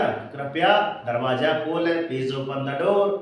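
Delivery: Hindi then English, slowly; slow model reading. Shown as a demonstration. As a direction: say it slowly as students should. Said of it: "हम बोलते हैं ना".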